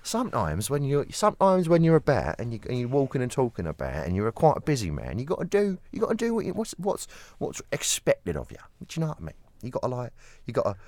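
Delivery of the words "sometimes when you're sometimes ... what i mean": high, loud Cockney patter. Acted. Riffing on being a busy man, hammed-up Cockney. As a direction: play up a chatty Cockney geezer accent. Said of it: "do your Cockney walk and your Cockney talk".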